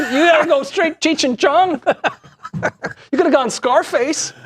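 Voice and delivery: high, hammed-up Chicano stoner voice; Cheech and Chong voice. Shown as a demonstration. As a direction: show him how it's done, hamming it up. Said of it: "you gotta talk like this".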